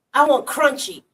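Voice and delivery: a hint of a greedy craving voice; lightly voiced whiny craving; craving soul voice. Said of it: "the soul is saying".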